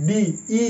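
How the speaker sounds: ডি broken off, then its ই vowel alone; Y sounded as ee. Shown as a demonstration. Teacher shows students the Y in body, ডি then ই as "ee". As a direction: isolate the "ee" ending: ডি, ই. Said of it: "এরকম উচ্চারণ হচ্ছে".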